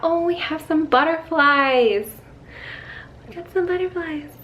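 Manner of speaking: bright, excited noticing; delighted. Real, not acted. To the camera, spotting butterflies, delighted. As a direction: point them out with delight.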